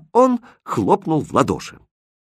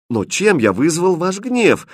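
high, slow puzzled question; genuinely at a loss; bewildered; 8 semitones higher, 3 dB louder than usual. Acted. Prince asks why they are angry, bewildered. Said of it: "недоумевающе спросил Хрустальд".

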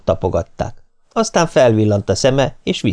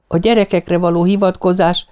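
high-pitched, indignant reproach; heated accusation; 9 semitones higher than usual. A narrator's reading. Nancy quarrels with Martin, high indignant reproach.

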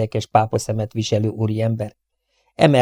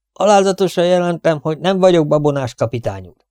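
dutiful soldier; 5 semitones higher than usual. Acted. Soldier reporting to captain.

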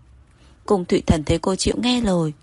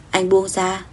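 plain reading voice

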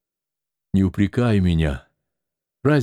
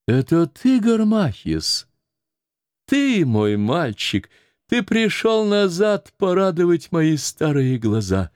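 recognition; 8 semitones higher than usual. Acted. Старуха узнаёт Гармахиса.

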